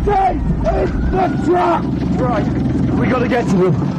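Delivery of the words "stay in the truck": drawn-out, insistent shout, stressing stay; slow shouted order. Acted. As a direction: hold them there with a slow firm yell. Ambush, repeating the order.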